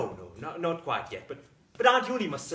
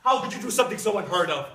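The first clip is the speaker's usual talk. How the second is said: loud, anguished demand for an answer; appalled outburst; 2 semitones higher, 10 dB louder than usual. Acted. Husband demands why his wife burnt it, appalled shouting.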